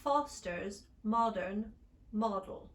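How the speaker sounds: "Foster's modern model" with rounded British o, slow; British short o. Shown as a demonstration. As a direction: round the lips on each o.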